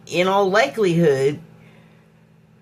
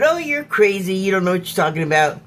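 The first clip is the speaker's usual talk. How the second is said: mocking; much faster than usual. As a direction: imitate people brushing someone off, quick and mocking. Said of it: "like, mocking you and going".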